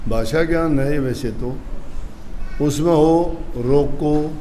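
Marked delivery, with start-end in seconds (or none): 3.6-4.3 रोको said alone, then a pause; comma after रोको. Shown as a demonstration. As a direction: stop firmly after रोको. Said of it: "कोमा लगा दिया". (रोको के बाद विराम)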